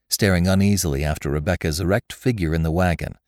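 plain reading voice

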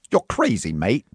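put-on Australian accent; lightly hammed Melbourne accent for a scene. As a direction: play it as a Melbourne local. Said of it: "your Melbourne accent".

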